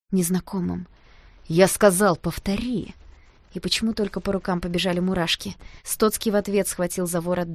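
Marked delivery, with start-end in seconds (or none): 1.5-2.9 harsh demand. A narrator's reading. Repeated threat in fight.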